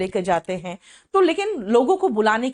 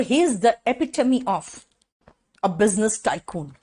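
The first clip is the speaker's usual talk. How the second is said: very slow, word-by-word dictation of the definition; much slower than usual. Shown as a demonstration. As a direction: dictate it so students can write. Teacher dictating example sentence. (धीमे-धीमे लिखवाना)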